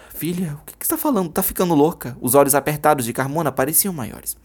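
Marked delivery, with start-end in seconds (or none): 0.1-2.2 shocked. Acted. Mother shocked by accusation.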